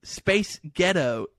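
slow, separated syllables; slow demonstration. Shown as a demonstration. Cohost shows how the phrase works, slow demonstration. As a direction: draw it out to demonstrate the trick. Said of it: "makes you sound like you're saying".

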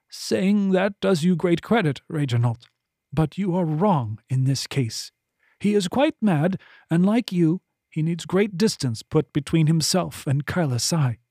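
voluptuary ordering the escort, composed and firm; commanding voluptuary. Acted. Voluptuary instructing Henley, calm and commanding.

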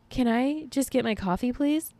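high, pleading request; exasperated pleading. Acted. Mock pleading for coffee.

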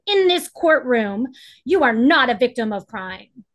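stern scolding. Retold or imitated. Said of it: "she scolded me".

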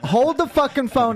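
hold it. Real, not acted. Interrupts the joking accusation.

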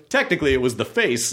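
understated smug correction. Retold or imitated. Daniel correcting someone at a party, lightly smug retelling. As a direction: correct them with a touch of self-satisfaction. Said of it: "Daniel kinda smugly goes".

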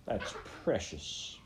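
slow, breathy mocking sneer. Captain scorning the rabbit's defiance with a sneer. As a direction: drip contempt on precious.

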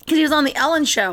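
ordinary delivery

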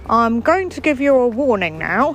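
a lightly put-on stern officer; hint of an officious policeman. Retelling the warning from the officer, in a light officer voice. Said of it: "This is my police officer voice".

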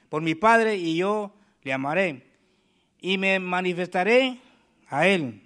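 slow, deliberate preacher's reading; unhurried scripture read to the church. Acted. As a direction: read each phrase as holy words. Reads the gospel passage slowly.

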